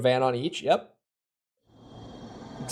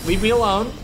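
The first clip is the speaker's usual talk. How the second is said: panicked yell; 7 semitones higher, 5 dB louder, faster than usual. Real, not acted. Fleeing a lizard in game.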